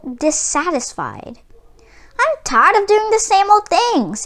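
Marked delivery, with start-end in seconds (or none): 2.2-4.2 higher grumbling complaint. A narrator's reading. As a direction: sigh it out, fed up with everything. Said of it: "he grumbled".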